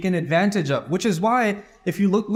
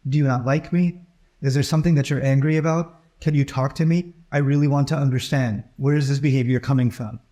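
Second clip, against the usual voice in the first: lower, gentle coaxing questions; gentle teacher; 5 semitones lower than usual. Retold or imitated. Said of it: "has a gentle conversation with them".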